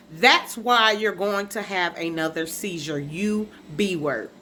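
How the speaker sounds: slow, deliberate quoting; measured re-enactment of a curse; retold cruel parting words. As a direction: lay out each word slowly and pointedly. Quotes mom's cruel last words.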